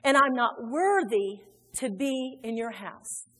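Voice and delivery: deliberate confession with long pauses; confessing to daddy. Acted. Preacher as returning son confessing to his father, humble. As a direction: call out to him, then own up humbly. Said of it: "he pulled his daddy back like that and he said".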